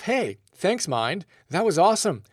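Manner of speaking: sarcastic cheery thanks; chirpy, over-the-top thank-you to the mind; playful mock praise; mock grateful. Shown as a demonstration. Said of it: "say to yourself".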